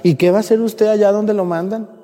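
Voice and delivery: hammed-up dismay; mock-sad lament. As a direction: imitate fretting parishioners, pitch leaping up. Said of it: "la gente se pone triste y dice".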